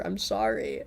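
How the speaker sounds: yawning through words; sleepy yawn. Real, not acted. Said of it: "I keep yawning".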